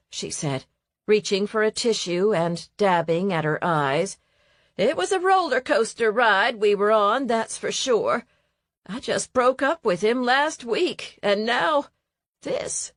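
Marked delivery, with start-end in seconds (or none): 4.8-12.9 higher, then this breaks to a whisper; lightly voiced grief fading out; tearful Evelyn. Evelyn telling of the breakup, trailing to a whisper.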